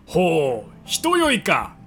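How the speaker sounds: lightly voiced pondering old sage; old professor voice. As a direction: muse like a wise old doctor. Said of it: "博士、".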